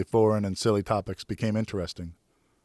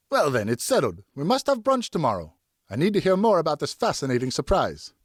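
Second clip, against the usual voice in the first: higher, louder, merry tipsy friend; tipsy friend Richard; 7 semitones higher, 4 dB louder than usual. Acted. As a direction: greet him like a jolly half-drunk pal. Narrator voices tipsy Richard.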